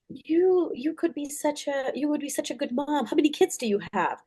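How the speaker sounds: quoting grandma. Retold or imitated. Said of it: "She's like".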